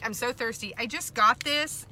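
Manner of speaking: talking between sips of juice; words around a drink; while sipping a drink. Real, not acted. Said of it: "Sorry, I'm taking a drink".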